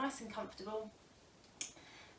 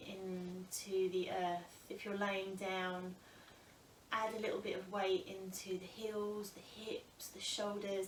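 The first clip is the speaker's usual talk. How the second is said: calm, unhurried yoga teacher with long pauses; guided breath meditation. Acted. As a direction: guide them gently into noticing the breath.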